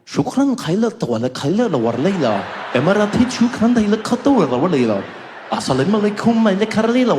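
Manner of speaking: hammed-up Arabic-sounding gibberish; mock Arabic flight announcement; mock Arabic safety video. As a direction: parody an Arabic Emirates announcement. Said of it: "Please watch the safety video".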